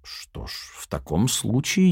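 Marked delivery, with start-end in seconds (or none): none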